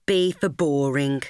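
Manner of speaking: the deadpan second half of a taunt; flat mocking tag. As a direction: drop back down, dry and deadpan. Mocking chant to her friend.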